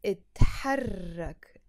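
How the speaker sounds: اتحرك whispered, slow; whispered model word; whispered demo. Shown as a demonstration. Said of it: "You would say in that case".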